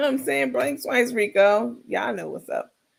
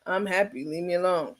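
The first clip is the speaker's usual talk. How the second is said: soft, flat, lifeless; no conviction; 3 semitones lower, 5 dB quieter than usual. Retold or imitated. Rico telling viewers he's happy, flat. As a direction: recite it without meaning it. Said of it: "Now that's what it was".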